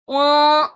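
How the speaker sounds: اون clipped and loud, not held; the mistaken short اون; اون cut short; wrong short oon. Shown as a demonstration. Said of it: "اون نہیں پڑھنا".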